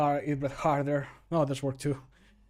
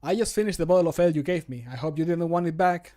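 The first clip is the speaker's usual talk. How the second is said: brisk, cheeky and a bit louder; character voice line; 6 dB louder, faster than usual. Acted. Character teasing the player about drinking their ale, cheeky brisk voice. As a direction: tease them about the empty bottle. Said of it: "my character will say this voice line".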